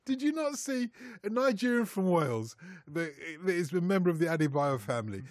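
put-on a light stab at a Welsh accent, rhetorical. Ribbing the pundit about Wales in a mild Welsh accent. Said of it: "You, you do the accent so well".

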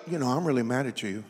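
low, soft, hurried monotone; meek, undertoned complaint, comically calm; mock mild anger. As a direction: play being mad with no fight in it at all. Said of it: "I ain't never heard no woman that go".

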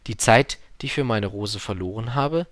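learner's simple echo; little prince repeating. Acted. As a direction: repeat it to memorise. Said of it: "sagte der kleine Prinz, um es sich zu merken".

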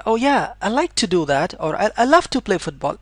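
eager reply to an offer. Shown as a demonstration. Teacher acting a keen reply to an offer, eager. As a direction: jump at the offer with an eager Oh yeah. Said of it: "Not in that sense".

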